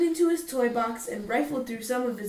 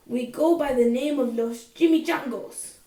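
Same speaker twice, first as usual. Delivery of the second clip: a lightly voiced gruff bandit leader; growled; 5 dB louder than usual. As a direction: growl it to size up the stranger. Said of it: "growled Don Diego".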